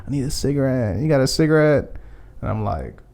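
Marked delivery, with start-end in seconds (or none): 0.1-2.0 zombie-like crackhead. Retold or imitated. Crackhead begging a stranger for a cigarette, lightly zombie-like. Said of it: "just like a zombie".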